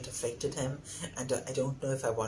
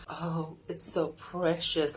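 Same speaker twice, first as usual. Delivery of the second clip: gushing; 5 semitones higher, slower than usual. Retold or imitated. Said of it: "And I was like".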